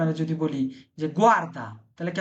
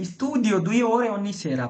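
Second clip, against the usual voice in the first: slow model sentence; much slower than usual. Shown as a demonstration. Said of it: "teacher models Italian sentence".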